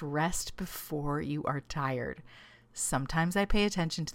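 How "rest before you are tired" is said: reading the note. Retold or imitated. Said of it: "It says".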